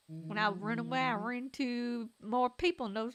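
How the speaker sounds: lightly twanged storytelling; twangy character voice. Acted. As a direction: recount it with a touch of twang. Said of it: "That's better".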